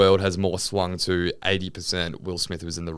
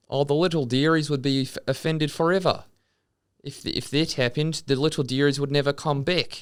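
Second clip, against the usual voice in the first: high-pitched New Zealand dad voice; doing his dad's voice; dad impression; 7 semitones higher than usual. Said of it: "How do I do a better impersonation of your, your dad".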